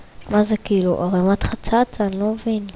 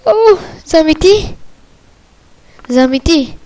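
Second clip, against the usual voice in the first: high, loud is this real; astonished; 8 semitones higher, 5 dB louder than usual. Real, not acted. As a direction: ask in total disbelief. Astonished at game find.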